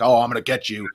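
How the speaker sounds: mild playful threat, imitated; joking manner. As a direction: lightly mimic a cop's teasing chase. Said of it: "like, a joking manner".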